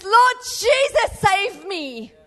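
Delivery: high, slow, loud cry of Lord Jesus; desperate cry. Acted. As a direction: cry out like a drowning man. Sinking Peter shouting for help.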